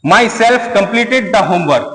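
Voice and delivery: "My self completed the homework" read very slowly with weight on "self"; emphatic reading. Shown as a demonstration. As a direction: lean on "self", word by word. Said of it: "इसमें थोड़ा सा बात जोर डाल के कहा जाता है". ("self" पर ज़ोर देकर धीरे-धीरे पढ़ें)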